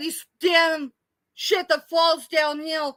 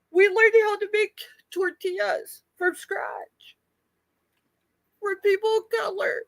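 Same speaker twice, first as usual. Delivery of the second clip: whisper; 4 semitones higher than usual. Real, not acted. Tearful memory, whispered.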